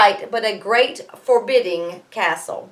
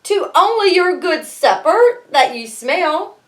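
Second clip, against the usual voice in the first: mild quaver; 6 semitones higher than usual. A narrator's reading. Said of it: "she quavered".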